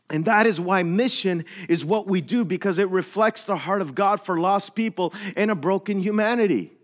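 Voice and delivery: earnest pulpit delivery, slightly lifted; emphatic preaching. Real, not acted. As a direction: drive the sermon point home. Preaches the closing point.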